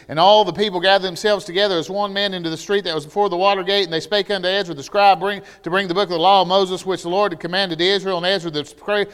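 fast monotone rush through the verse; rushed reading. Shown as a demonstration. Preacher showing how people rush the Bible, fast and flat. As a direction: gabble it like a chore. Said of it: "try to read it like it's written".

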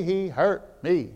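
ordinary talk

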